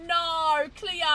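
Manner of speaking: loud, high Aussie twang; Australian accent. Acted. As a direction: slip into exaggerated Australian. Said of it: "Okay, that's Australian".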